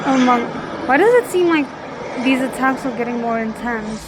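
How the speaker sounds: startled by the attacks on screen; shocked. Real, not acted. Viewer startled as attacks get worse, loud shocked outburst. Reacting to violent scene.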